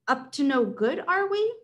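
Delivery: rising, sneering question; villain accusing. Acted. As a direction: sneer it up at the end. Caesar accuses shopper.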